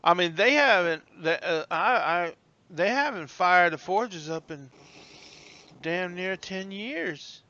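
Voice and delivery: lightly voiced stammering disbelief; slow, halting old porter; flustered old bellhop. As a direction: stumble over words in surprise. Bellhop is taken aback.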